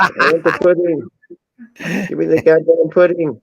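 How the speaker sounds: mock childish pudding whine; whiny begging. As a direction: drag it out like a pouting kid.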